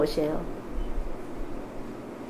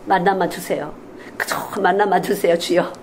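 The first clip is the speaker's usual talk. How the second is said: begging prayer; 4 semitones lower than usual. Retold or imitated. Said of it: "그냥 싹싹 빌어요".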